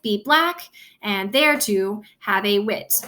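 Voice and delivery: "be black" with weight on "black"; measured beats landing on "black" and "wit"; iambic stress. Shown as a demonstration. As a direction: scan "be black and thereto have a wit" pair by pair. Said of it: "that's emphasized".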